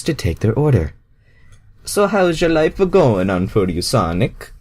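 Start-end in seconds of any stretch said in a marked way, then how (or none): 1.8-4.5 higher, bouncy Mario voice. Acted. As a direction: play Mario, cheery and up. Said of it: "Mario asked".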